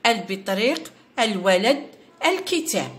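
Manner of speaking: البطريق، الولد، الكتاب each with a sounded L; article pronounced normally. Shown as a demonstration. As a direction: list البطريق، الولد، الكتاب word by word, every article L voiced. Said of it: "راني ننطق في ال العادي".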